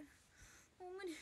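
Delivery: breathy unvoiced whisper of giving up; barely audible whimper; whispered despair. Real, not acted. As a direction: sigh it out, defeated. Overwhelmed, collapsing whisper.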